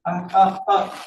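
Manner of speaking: short gasps building toward a sneeze; stifled sneeze build-up. A narrator's reading. Hiding girl stifles a tickle in her nose, about to sneeze. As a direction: fight back a coming sneeze. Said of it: "threatens to explode into a sneeze".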